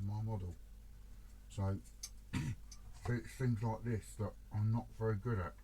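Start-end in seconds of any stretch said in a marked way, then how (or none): 2.3-5.5 mouth full. Real, not acted. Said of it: "I've got the brush in my mouth".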